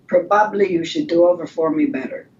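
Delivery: put-on lightly done Polish accent, teacher giving advice. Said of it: "I think your Polish accent is on point".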